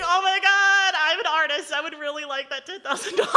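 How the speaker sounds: a playful envious cry; excited outburst. Retold or imitated. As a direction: blurt it out, half laughing. Reacting to ten-thousand-dollar price.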